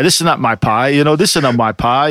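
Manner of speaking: lightly mocked over-the-top Italian accent; pizza-parlor Italian. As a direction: imitate a bad movie Italian pizza man. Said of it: "when they do the Italian, like the pizza parlor".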